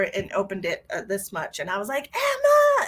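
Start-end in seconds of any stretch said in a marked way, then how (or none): 2.1-2.9 high, loud call of a name; retold yell. Parent yelling for a hurt daughter inside the house. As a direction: call her name out through the door. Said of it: "And I yelled".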